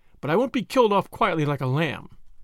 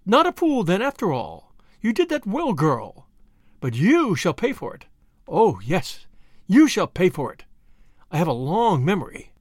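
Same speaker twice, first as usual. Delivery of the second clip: menacing threat; 3 dB louder than usual. Acted. Villain threatens revenge.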